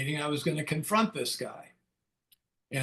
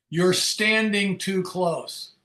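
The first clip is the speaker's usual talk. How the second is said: retold warning; 3 semitones higher, 4 dB louder, much slower than usual. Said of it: "and he said".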